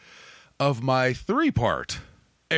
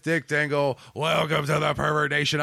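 rough, gravelly host voice, pitched up. Acted. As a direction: growl out a gravelly welcome. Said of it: "I'm very gravelly with this opening".

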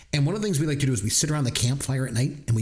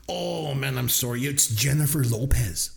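light mock French Canadian apology; a lightly voiced French Canadian mom; mock French accent. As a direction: shrug it off in a hint of Quebec accent. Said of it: "your insensitive French accent".

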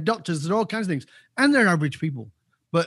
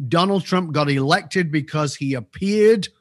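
"appeared" slow and weighted; stress on appeared. Real, not acted. Pundit explaining Trump's appeal, stressing appeared. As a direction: lean hard on "appeared", slower line. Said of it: "I will emphasize the word appeared".

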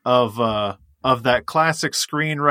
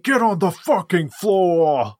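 mock British accent; 4 semitones higher, slower than usual. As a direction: put on a hammed-up British tough-guy accent. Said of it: "it's like a Liverpudlian Australian".

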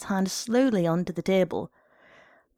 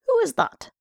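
calling out; 4 dB louder than usual. A narrator's reading. Father calls into the darkness.

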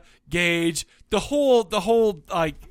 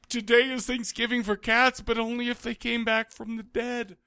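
mocking a cringey line; 5 semitones higher than usual. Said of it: "I cringe at".

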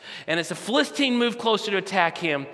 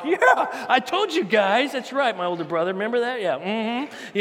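put-on gloating teenage David; 3 semitones higher than usual. David lifts the giant's head to taunt his brothers, laughing and higher. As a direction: crow at the older brother with a laugh. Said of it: "he's like".

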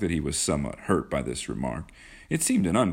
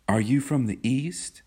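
put-on higher-pitched, sweetly interested girl; a light, higher question with charming interest; 8 semitones higher than usual. A narrator's reading. Kismine asks John about home, with charming interest. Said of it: "asked Kismine with charming interest".

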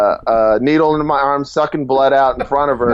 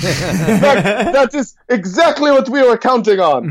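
Osama impression; 8 semitones higher than usual. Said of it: "he's like".

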